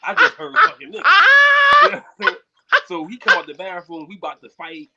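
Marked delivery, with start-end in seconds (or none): 0.0-2.4 high and loud outrage; incredulous, voice climbing; heated retelling of the insult; indignant retelling. Retold or imitated.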